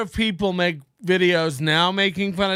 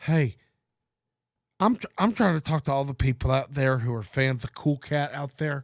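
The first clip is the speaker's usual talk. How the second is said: put-on lisp, lower and quieter; 4 semitones lower, 5 dB quieter than usual. Mocking the creator in the video: Derek Savage impression with a lisp. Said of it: "This is what it sounds like".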